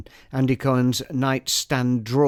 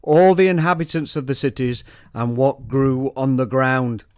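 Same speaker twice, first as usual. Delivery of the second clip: emphatic, declaimed Bible verse; solemn scripture reading. Acted. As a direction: read it out like scripture from a lectern. Scripture read aloud before explanation.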